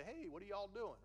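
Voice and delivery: light imitation of a Southern accent; a touch of folksy Southern accent. Someone from the South coming up to chat, mild Southern accent. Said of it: "when someone's from the South".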